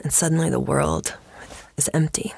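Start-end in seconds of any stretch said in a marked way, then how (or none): 1.8-2.3 hushed, dramatic whisper. Pretend. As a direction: breathe it out for drama. Dramatic scene-painting of cricket ballad.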